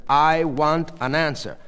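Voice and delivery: demanding. A narrator's reading. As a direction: press firmly for an answer. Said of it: "Sheila demanded".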